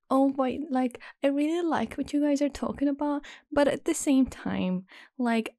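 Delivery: a hint of mock high-pitched girl voice; imitating nasal friend. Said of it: "her voice is very nasal".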